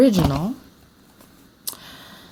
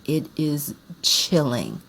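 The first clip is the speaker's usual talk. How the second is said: slow and hushed; slower than usual. Real, not acted. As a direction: let it sink in slowly. Savoring a movie scene.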